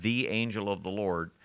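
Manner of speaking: THE set apart before angel; teacher pointing out "the" in "the angel of the Lord"; stress on THE. Shown as a demonstration. Stress on the article. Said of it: "the definite article, T H E".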